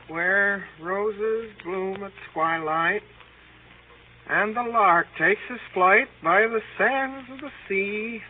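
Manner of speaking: slow, dreamy recitation of verse; reciting a poem. Acted. William murmuring his poem to himself, slow and dreamy. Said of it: "Wasn't that you reciting this".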